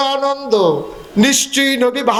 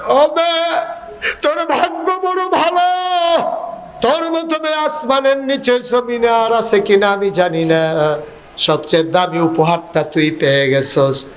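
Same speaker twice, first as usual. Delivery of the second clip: tearful father; 3 semitones higher than usual. Acted. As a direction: cry out to the daughter in plaintive sing-song. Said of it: "লোকটা কান্দে আর কয়". (কান্নাভেজা সুরে বাবার আহাজারি)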